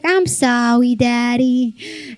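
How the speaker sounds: lightly mimicked small child; a hint of a sweet little girl; apologetic toddler. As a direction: imitate baby talk, r said as w. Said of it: "She's like".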